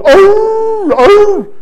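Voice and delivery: high, loud, drawn-out "oh"; imitated answering howl. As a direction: answer the holler with a high hoot. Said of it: "And the other goes".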